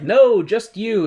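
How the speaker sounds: slow firm refusal; stern Wiz. Retold or imitated. Wiz refusing Dorothy's friends, slow and firm. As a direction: refuse slowly, like a stern ruler. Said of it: "The Wiz is like".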